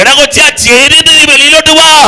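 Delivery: high, loud, pleading summons; fervent altar-call shout; full-force preaching. Real, not acted. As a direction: call them out with all your force. Preacher calls people out of sorrow.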